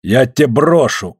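slow, panting retort; puffing threat. Acted. Afanasy puffs behind, threatening Smolkov, panting. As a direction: huff it out under strain. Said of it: "пыхтел Афанасий сзади".

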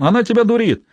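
high-pitched scornful retort; contemptuous. A narrator's reading. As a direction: scoff at the claim, pitch way up. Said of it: "презрительно захохотал".

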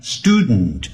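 student as "STOO-dnt"; student with a swallowed second vowel; nasal release. Shown as a demonstration. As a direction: let the end of student come through the nose. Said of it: "用鼻音出来".

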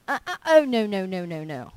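rising up against the doubt, then settling; refusing the voice of doubt, loud then dying away; defiant refusal. Retold or imitated. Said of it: "I rose up on the inside".

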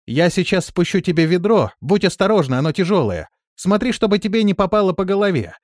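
high, loud instructions down the well; calling down. A narrator's reading. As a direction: call the warning down into the well.

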